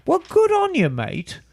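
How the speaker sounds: put-on light Canadian accent, high start. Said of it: "your best Canadian accent".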